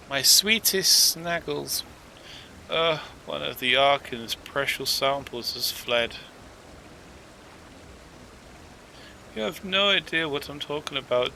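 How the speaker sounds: lightly voiced anxious archivist fretting over a lost troll; a hint of a worried keeper of samples; fussy archivist. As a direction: play a flustered scholar, rising on the fond lines. Reads archivist NPC dialogue.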